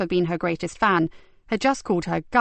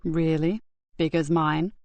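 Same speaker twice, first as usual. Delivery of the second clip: soft; 3 semitones lower than usual. Acted. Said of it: "kept his tone soft".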